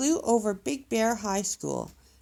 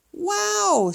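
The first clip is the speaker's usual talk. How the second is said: much higher and louder wow; amazed wow; 12 semitones higher, 8 dB louder than usual. Acted. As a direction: gasp it out in wonder. Cubs amazed by farmers.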